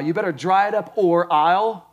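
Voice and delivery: mock parental threat. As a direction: imitate a parent warning a tearful child. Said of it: "we've heard things like this".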